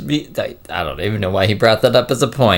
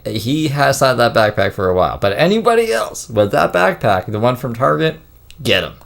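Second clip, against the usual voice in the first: retold livestream announcement; 4 semitones higher than usual. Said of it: "he got on live stream and was like".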